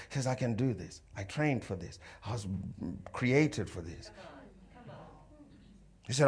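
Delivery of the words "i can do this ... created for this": low, quiet self-talk; softly spoken pep talk to oneself; under the breath. Acted. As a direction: quietly psych yourself up. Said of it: "quietly under my breath".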